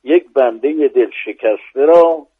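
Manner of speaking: measured, rhythmic verse reading; poem recitation. Acted. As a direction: recite the quatrain with weight. Recites a rubai.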